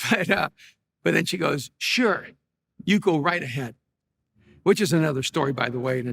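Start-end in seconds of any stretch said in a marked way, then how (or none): 1.8-3.7 imitated grudging go-ahead, not meant; insincere permission. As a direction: grant permission while implying the opposite. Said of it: "I knew that she didn't mean that".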